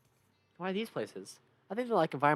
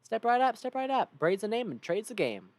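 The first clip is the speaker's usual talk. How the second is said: high, loud Southern huckster; Southern trader; 6 semitones higher, 5 dB louder than usual. Acted. Trader Braid hails a passing customer, loud Southern huckster. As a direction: call out the wares like a Southern salesman. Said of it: "Southern accent for all these guys".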